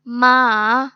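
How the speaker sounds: मा dipping down, then climbing back up; long loud मा with a scooped pitch; third-tone मा, drawn out through a dip; falling-rising third tone. Shown as a demonstration. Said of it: "falling and rising tone".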